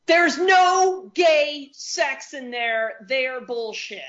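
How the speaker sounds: high-pitched, indignant fan rant; comic outraged rant. Real, not acted. Fan demanding romance in Sherlock films, high-pitched outrage.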